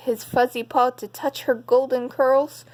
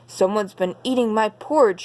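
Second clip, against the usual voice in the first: lightly growled big bear line; growling papa bear. Acted. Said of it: "he growled".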